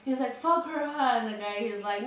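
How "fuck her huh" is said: higher-pitched retold cursing; imitated anger. Drunk man to the guy next to him, imitated anger. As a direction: mimic an angry man seeking agreement. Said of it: "And then he gets mad".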